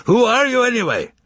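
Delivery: furious narrated shout; enraged shout. A narrator's reading. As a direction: shout at him in rage. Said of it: "enraged ... shouted".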